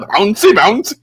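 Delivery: high, loud catchphrase shout; excited imitating holler; gleeful yelling. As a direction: yell it out, tickled by it. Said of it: "I just kept yelling it out".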